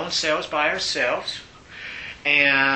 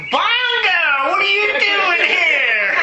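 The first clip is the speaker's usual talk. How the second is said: high, loud, laughing mock greeting; laughing surprised greeting; 7 dB louder, much slower than usual. Inmates spot him on the food line, laughing high and loud. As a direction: call out his name through laughter, high and loud.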